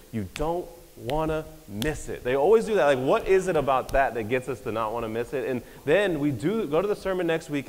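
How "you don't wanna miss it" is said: slow, drawn-out promo line; mock pastor teaser. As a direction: lightly imitate a pastor hyping next week, slowly. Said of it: "And they always say this".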